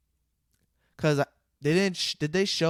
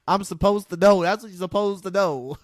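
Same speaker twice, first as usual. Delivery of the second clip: laughing; 4 semitones higher, 4 dB louder than usual. Real, not acted.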